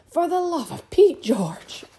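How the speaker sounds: high, loud outburst; exasperated shout. A narrator's reading. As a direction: shout at a husband who won't understand. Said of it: "shouted her mother".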